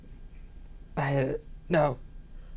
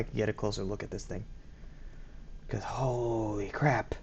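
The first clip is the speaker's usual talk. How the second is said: awed hush; 4 semitones lower, 7 dB quieter than usual. Real, not acted. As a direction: drag out holy crap in disbelief. Awed by the creature.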